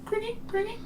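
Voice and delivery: high chirping cricket imitation; cricket chirps. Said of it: "making cricket noises".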